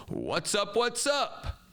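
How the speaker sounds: high, rising attention call to a class; teacher's call-out. Shown as a demonstration. Teacher cueing students for attention, high call-out. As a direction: sing out a cue for the room. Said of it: "I would say to my students".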